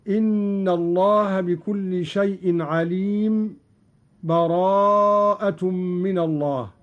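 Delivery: slowed chant with a short breathless gap after عليم; brief silent break. Shown as a demonstration. Teacher showing the sakt pause without breath, slow chant. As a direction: hold a tiny silence without breathing before براءة. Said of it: "السكت بدون تنفس".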